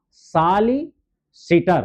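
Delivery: सॉलिसिटर drawn out slowly, syllable by syllable; teacher spelling out सॉलिसिटर slowly; slow dictation. Shown as a demonstration. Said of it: "सॉलिसिटर लिखना है".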